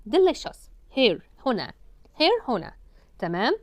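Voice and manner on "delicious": high drill. Shown as a demonstration. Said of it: "vowel rule then drill".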